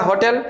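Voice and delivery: "होटल" with a clear breathy h at the start; sounded h in hotel. Shown as a demonstration. Teacher shows students the h sound in hotel. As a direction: give "होटल" its h: ho-tel, not o-tel. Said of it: "होटल में ह का sound आता है".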